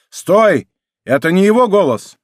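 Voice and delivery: loud shout, rising on the second; shouting stop. A narrator's reading. Leader shouts to stop the attack, loud. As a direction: yell it to halt the men. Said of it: "закричал тот же громкий голос".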